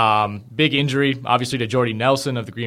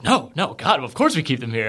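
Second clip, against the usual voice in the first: mock offended; 2 semitones higher than usual. Podcaster retelling a zookeeper's reply to his question, mildly offended. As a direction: play at being taken aback. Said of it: "offended that I would ask that".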